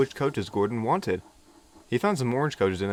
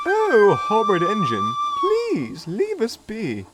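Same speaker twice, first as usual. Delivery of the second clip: high, louder, then slow huffy plea; offended coach; 12 semitones higher, 5 dB louder, much slower than usual. A narrator's reading. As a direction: shoo him away in a huff. Coach upset.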